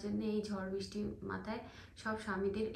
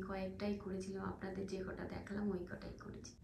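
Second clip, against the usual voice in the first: speaking softly; 6 dB quieter than usual. Real, not acted. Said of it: "আস্তে আস্তে কথা বলছি".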